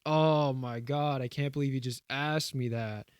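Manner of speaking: drawn-out, dramatic "oh my god"; mock dramatic. Friend retelling a sketch's reaction to a food question, mock dramatic. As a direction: act mildly scandalized, stretching the opening words. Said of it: "like, dramatic 'cause he's like".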